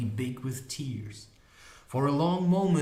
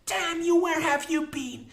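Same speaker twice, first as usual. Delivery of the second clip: high, louder cursing outburst; indignant cry; 4 dB louder than usual. A narrator's reading. Molly cursing the unicorn for coming late, crying out angrily. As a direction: curse and demand in a high woman's voice. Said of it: "she cried".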